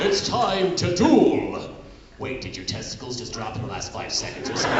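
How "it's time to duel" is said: low, slow heroic Yami voice; deep dramatic duel voice. Acted. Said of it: "What the heck happened to your voice".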